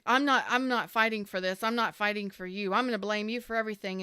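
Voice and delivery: imitating a childish ex throwing a fit; hissy fit. Reader mocking the blaming ex's hissy fit, petulant. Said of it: "pitch a fucking hissy fit".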